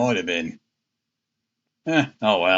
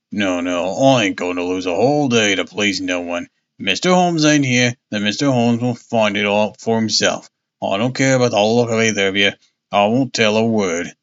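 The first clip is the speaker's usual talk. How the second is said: put-on grumpy old sailor voice; 4 semitones lower than usual. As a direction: lower stubborn old seaman. Old seaman refuses, grumpy.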